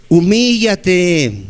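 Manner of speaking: "Humíllate" drawn out very slowly, each syllable weighed; preacher commanding the flock to humble themselves, very slow; slow exhortation. Real, not acted. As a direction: lean hard on "Humíllate", slow and heavy.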